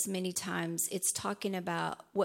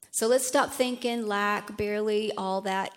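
emphatic preaching; 5 dB louder than usual. Real, not acted. Emphatic exhortation.

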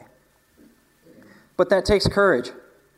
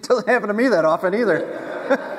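high-pitched blubbering, half laughing; mock bawling; 6 semitones higher, 4 dB louder than usual. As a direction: imitate yourself bawling, with a laugh. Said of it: "I started bawling".

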